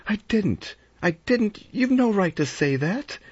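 high-pitched, indignant outburst; vehement. A narrator's reading. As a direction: deny it hotly, pitch flung right up. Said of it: "Vera said vehemently".

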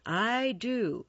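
mild snarl. A narrator's reading. Mercutio steps up to fight Tybalt, mildly snarling. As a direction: insist with a touch of snarl. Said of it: "snarled Mercutio".

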